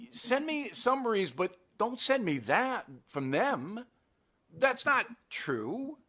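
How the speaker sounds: very gently. Retold or imitated. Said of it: "And then I said very gently".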